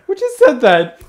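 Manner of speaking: laughing out the question, loud and high. Real, not acted. Reacting to a surprise voice in the video, laughing loudly. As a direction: burst out laughing while asking.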